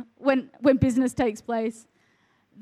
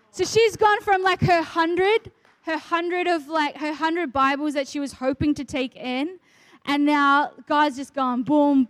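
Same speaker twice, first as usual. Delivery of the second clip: excited; 3 semitones higher than usual. Real, not acted. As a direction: build the wonder of the story. Amazed at God's provision.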